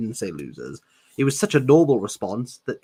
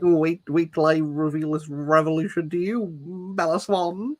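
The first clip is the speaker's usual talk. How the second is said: smug; 5 semitones higher than usual. Pretend. Mocking Edward's smug tone.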